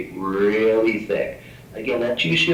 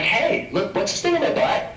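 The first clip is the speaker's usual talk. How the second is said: much higher, squeaky mock guest; silly partygoer; 12 semitones higher than usual. Partygoer shows dermatologist rash, high mock squeak. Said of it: "They're like".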